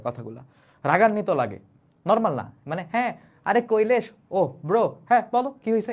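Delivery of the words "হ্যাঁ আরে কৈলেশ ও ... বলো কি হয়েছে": easy, chatty greeting, a bit higher; casual friendly. Shown as a demonstration. Teacher showing the wrong, casual way to address Kailash, friendly. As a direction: greet him like a buddy. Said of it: "এরকম না".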